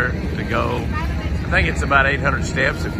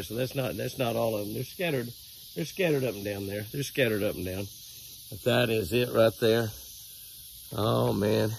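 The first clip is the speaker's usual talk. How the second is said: softer, hushed voice at daybreak; 3 semitones lower, 7 dB quieter than usual. Real, not acted. Filming his animals in the yard at dawn, hushed and soft. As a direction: keep it low as if not to wake anyone.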